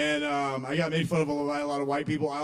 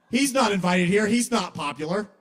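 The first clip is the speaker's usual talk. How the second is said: raised, louder snobbish objection; mild mock indignation; 5 semitones higher, 5 dB louder than usual. People in heaven objecting to an unpopular newcomer, mildly indignant. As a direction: object as if the guest list was broken.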